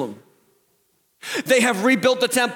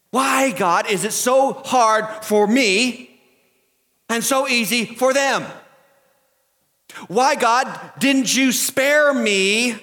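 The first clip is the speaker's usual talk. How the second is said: slow, drawn-out plea, rising at the end; anguished questioning of God; 3 semitones higher than usual. Retold or imitated. Hurt believer asking God why, slow and aggrieved. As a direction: plead with God, stretching the key words. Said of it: "We say it like this".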